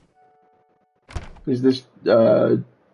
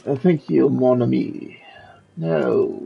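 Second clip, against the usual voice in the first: put-on French accent. Streamer voicing Lumiere asking for help, in a modest French accent. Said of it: "I'm trying my best to get a good French accent".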